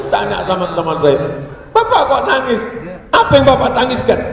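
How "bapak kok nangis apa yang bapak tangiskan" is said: higher, louder questioning; lightly acted puzzled inquiry; concerned guide. Guide asks crying pilgrim why, raised puzzled voice.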